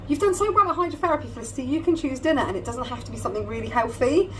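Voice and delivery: bright, fast, selling it as a treat; persuasive. Retold or imitated. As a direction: sweeten the offer, fast and upbeat. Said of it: "I dressed it up as".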